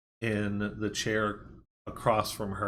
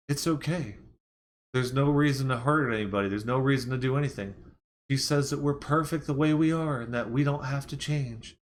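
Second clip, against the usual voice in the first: lightly imitated soothing of a baby or pet; mild coaxing, slightly raised pitch; talking to a child; 3 semitones higher than usual. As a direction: reassure a big creature as if it were a child. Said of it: "he's talking to it like a child".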